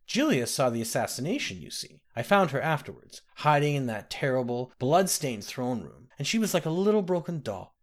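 a hint of a kindly old woman; old nursemaid. The speaker voiced old nursemaid.

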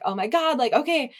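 frantic planning, acted out lightly; retold panic. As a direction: retell it in mild panic. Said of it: "I was, like, terrified".

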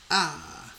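mock passionate sigh. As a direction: let out a playful, passionate "ah". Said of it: "like, passionate".

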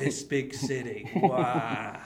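slow, awed country bumpkin; lightly voiced naive bumpkin; wide-eyed newcomer. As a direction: marvel at the big city slowly. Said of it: "thawed out of ice".

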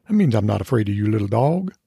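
hint of a Southern sheriff, unruffled; lightly voiced Southern lawman cat. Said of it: "the cat sounds like a Southern sheriff".

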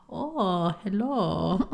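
lightly voiced dad's mild greeting; a hint of her dad's easy hello; imitating dad. Daughter imitating her dad answering the phone, mild and easy. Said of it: "That's how he talks".

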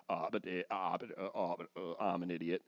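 low, very soft stammering mumble; flustered Peter. Acted. Peter rebuked by Jesus, flustered and sheepish. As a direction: trail into small, sheepish false starts. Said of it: "Peter must have been like".

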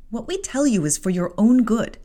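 not harsh. Acted. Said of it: "added Bessie in no harsh voice".

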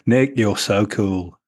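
Nick, you're so cool said slowly as a pun; slow down and land the pun on Nick, you're so cool; punning on the name. Shown as a demonstration. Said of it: "See what I did there?".

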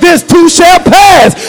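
slow. Shown as a demonstration. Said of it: "read the Bible".

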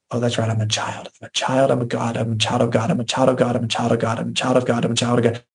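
low, even repeated declaration; repetitive self-affirmation. Acted. Believer reminding themselves who God says they are, repetitive affirmation. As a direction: repeat it like a mantra, on one low note. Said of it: "And over and over and over".

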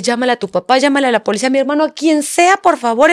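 urgent plea, rising toward the end; retold frantic yelling. Mother listing whom son should call, retold frantic plea. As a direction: re-enact begging your child for help. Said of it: "Empecé a gritarle".

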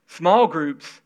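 like someone eager to join; willing, sincere. Shown as a demonstration. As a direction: say "Small groups," gladly and open. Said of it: "See the difference?".

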